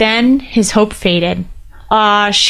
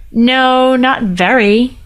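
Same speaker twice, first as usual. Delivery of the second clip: miserable; 4 semitones higher, much slower than usual. Acted. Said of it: "Ryder said miserably".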